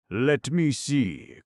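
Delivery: high, loud and drawn-out; eager cry. Acted. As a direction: cry out, grabbing for it. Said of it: "cried the king".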